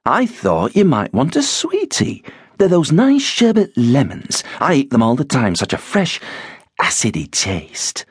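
high, sugary busybody voice; sister-in-law. A narrator's reading. Sister-in-law pushing sweets on Ben, chirpy. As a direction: chirp it up sweetly, a touch smug.

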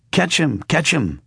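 high, urgent call down the street; old father shouting after his runaway puppet. A narrator's reading. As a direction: cry out to stop the runaway. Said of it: "Geppetto shouted".

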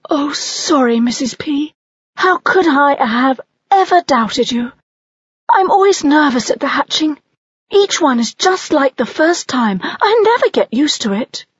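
high, bright-eyed mother owl. Acted. Mother owl to the nest snake, high voiced.

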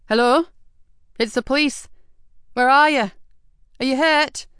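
police officer calling into a collapsed cellar. A narrator's reading. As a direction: call out to find someone hurt.

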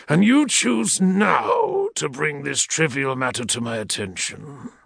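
lightly voiced menacing growl through a respirator; a hint of threat behind a mask; threatening growl. Equerry scolding the logistician, mild menacing growl. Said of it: "His voice growled threateningly".

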